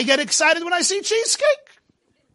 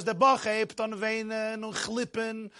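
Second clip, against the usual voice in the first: slow, softer Jerusalem Yiddish storytelling lilt; Jerusalem melody; 2 semitones lower, 6 dB quieter, slower than usual. Retold or imitated. Maggid tells how the boy began weeping, Jerusalem melody. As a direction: imitate a maggid's drawn-out Jerusalem singsong. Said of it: "a Jerusalem melody".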